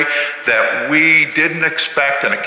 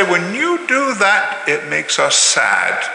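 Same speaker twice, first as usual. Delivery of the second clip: calm I-statement; 4 semitones higher, slower than usual. Shown as a demonstration. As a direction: say it gently, not to fight. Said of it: "but we say".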